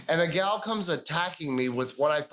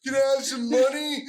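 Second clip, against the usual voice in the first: lightly voiced beggar; 7 semitones higher than usual. Homeless man begging, voiced in story.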